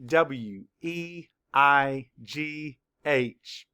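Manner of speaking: "E I G H T Y" spelled slowly, letter by letter; slow spelling. Shown as a demonstration. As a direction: spell each letter slowly for young learners. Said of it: "Spell it".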